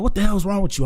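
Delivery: a hint of an exasperated father; mild mock scolding dad; imitating his dad. Dad voiced in retold story.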